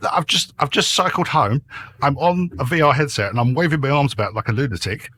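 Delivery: reply with mock exasperation; a touch of defensive indignation; retold exasperated retort. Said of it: "I'm going".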